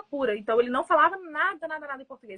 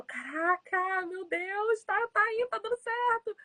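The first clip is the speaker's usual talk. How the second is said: slow then rising, delighted; excited self-quote; 8 semitones higher, slower than usual. Retold or imitated. Teacher delighted by a student's progress, rising excitement. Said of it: "eu falo".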